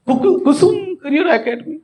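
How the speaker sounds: high, marvelling read-out; astonishment. Shown as a demonstration. Speaker reads out the academy's name, astonished. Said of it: "आश्चर्य".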